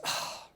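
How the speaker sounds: short, quiet breathy "ah"; breath out, lost for words; soft imitated sigh. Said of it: "at first, the guy goes".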